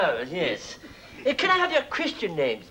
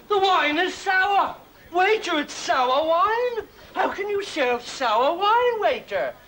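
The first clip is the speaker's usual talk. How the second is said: mock complaint; 5 semitones higher than usual. Diner complains loudly about wine.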